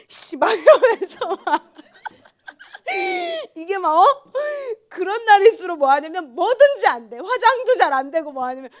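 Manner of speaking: high, loud laughing retelling. Real, not acted. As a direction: laugh through the story. Laughing at her bad morning.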